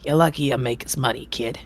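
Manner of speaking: a gruff, impatient circus ringmaster scolding. Acted. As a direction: grumble at the late performer.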